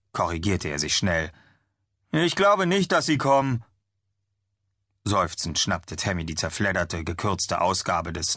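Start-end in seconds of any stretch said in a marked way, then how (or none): 2.1-3.6 much higher, a bit louder worried voice; doubtful young man. Acted. Chad tells Tammy the zombies won't come, higher and worried. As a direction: whine the doubt out.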